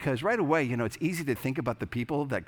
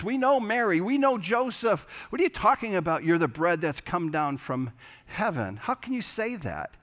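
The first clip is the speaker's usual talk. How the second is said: indignant crowd; 7 semitones higher than usual. Retold or imitated. Crowd in John six scoffing at Jesus, higher and mock-indignant. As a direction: play the scoffing neighbours who know his family.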